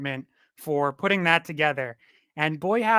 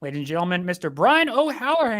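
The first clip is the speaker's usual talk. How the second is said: emcee introduction; faster than usual. Real, not acted. Host brings on the last and final guest, emcee introduction. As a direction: announce the guest like a show host.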